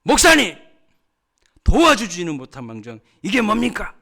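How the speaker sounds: very loud, high-pitched outraged shout, acted out; 화나서 따짐. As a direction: storm in and confront the pastor. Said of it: "화가 이만큼 대빵 나가지고". (화가 잔뜩 나서 따지듯 고함)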